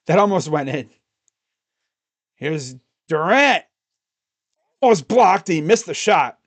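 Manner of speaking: live basketball commentary, rising with each basket; excited broadcaster calling the comeback; play-by-play call. Acted. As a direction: call every possession like a TV announcer. Streamer calls the game live.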